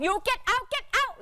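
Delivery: high, drawn-out broken English yell; mock yelling get out. Husband pointing at the foreigner, hammed-up high yell. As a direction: chase him off with a stretched high cry. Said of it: "ชี้หน้าบอก".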